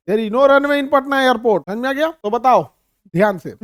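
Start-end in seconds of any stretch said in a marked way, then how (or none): 0.1-1.6 slow, loud and spelled out; slow English repeat. Shown as a demonstration. Teacher repeating the point in English, slow and loud. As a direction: drill it slowly for the class. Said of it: "Patna airport पे runway नहीं है".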